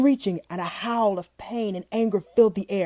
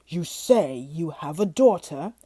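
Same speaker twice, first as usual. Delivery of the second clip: sly beast; 4 semitones lower than usual. Acted. Beast suddenly calculating.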